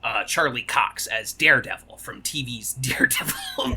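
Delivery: put-on low-pitched British actor's flattened American accent. Mocking British actors who play superheroes, flattened American accent. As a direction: do a flattened American accent, vowels pressed hard. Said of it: "flatten it out ... hard on the top of their mouth".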